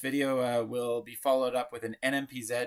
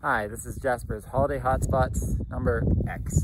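louder bright host announcement; loud show intro; 5 dB louder than usual. Pretend. Mock show intro, last clip.

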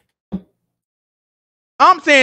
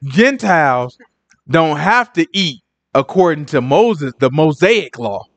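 mock lecturing; 7 semitones lower, slower than usual. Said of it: "They look like".

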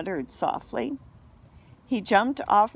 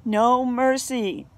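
loud, slow, higher bellow; 4 semitones higher, 5 dB louder, slower than usual. A narrator's reading. Cat pinning the dog, bellowing down at him. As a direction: roar it down like a pirate. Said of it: "the voice above bellowed".

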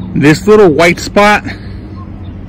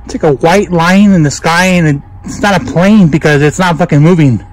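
breathing hard while talking; winded from hauling hay. Real, not acted. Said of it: "I'm breathing hard".

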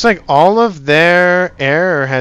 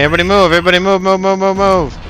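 shouting orders; 5 semitones higher, faster than usual. Real, not acted. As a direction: yell them forward. Ordering units to move.

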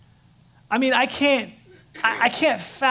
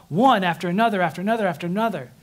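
piles the words on faster and faster; one trouble tumbling after the next; speeding up; much faster than usual. Acted. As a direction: rattle off the repeats quicker each time. Listing troubles piling up.

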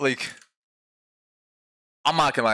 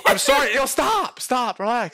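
laughing plea; 10 semitones higher, 3 dB louder, slower than usual. Real, not acted. Calming strangers after outburst.

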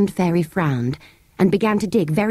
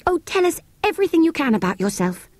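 put-on much higher, eager little girl; pleading child; 10 semitones higher than usual. Jane begging the sand fairy, high and eager. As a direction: coax it out of him sweetly.

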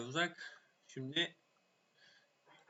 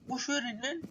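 much higher frantic shout to run; louder yelling; 11 semitones higher, 3 dB louder than usual. Real, not acted. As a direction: scream at them to hurry. Yelling at his troops. (çok tiz bağırış)

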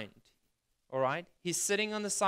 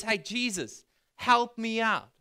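retold call for help, raised and louder; mock shout for help, higher at the end; 5 semitones higher, 4 dB louder, slower than usual. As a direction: imitate a beggar calling out to someone. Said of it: "he shouts out and he cries out".

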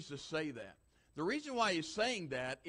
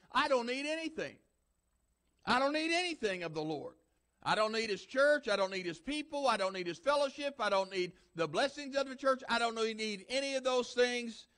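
mock self-satisfied voice, raised; apathetic churchgoer; 5 semitones higher than usual. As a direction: brush off God like a smug member.

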